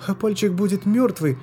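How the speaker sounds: put-on high child voice, anxious and fast; a small girl worrying about her finger; испуганный детский голос; frightened little girl. A narrator's reading. Child Loska voiced throughout.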